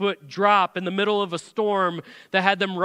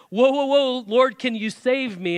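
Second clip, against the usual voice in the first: mock panicked Peter; 4 semitones higher than usual. Peter sinking, crying out.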